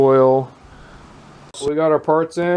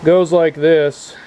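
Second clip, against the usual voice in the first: louder, slow words against the wind; shouting over wind; 4 semitones higher, 5 dB louder, slower than usual. Real, not acted. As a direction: push the voice over wind noise. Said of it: "Hopefully you can hear me over this wind".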